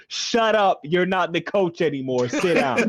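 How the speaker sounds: mock-scold him through rising laughter; retold mock yell. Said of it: "yells at him".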